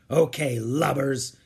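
lightly voiced gruff pirate boss; a hint of a bossy pirate captain. Pirate captain to his young captives, lightly voiced bossing.

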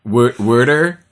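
"Wa-, water" with a broad wah vowel, Boston accent; Boston "water" stretched, wah-ter. Shown as a demonstration. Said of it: "that thick Boston accent".

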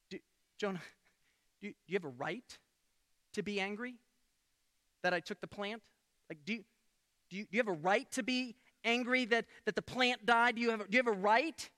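tender probing question; gentle God. Retold or imitated. God asking angry Jonah softly, gentle and soft.

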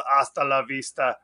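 put-on low, lightly accented movie catchphrase; Schwarzenegger line. Quoting the Terminator line in a hint of his voice.

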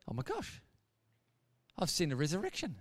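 soft, stunned awe; hushed amazement. Retold or imitated. Gary seeing John Wayne alive again, hushed amazement. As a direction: let it out quietly, pausing in disbelief.

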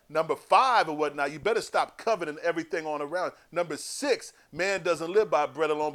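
a stern prophet reading the crowd its rules; John laying down the law. Retold or imitated. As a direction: preach each rule at them. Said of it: "He said".

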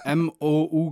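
letter by letter; spelling it out. Real, not acted. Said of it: "wie schreibt man's denn nochmal?".

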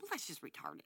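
unvoiced whispered aside. Real, not acted.

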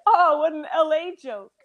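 groaning at a corny joke; mock groan. Shown as a demonstration. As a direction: groan it out, playful. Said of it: "you just like".

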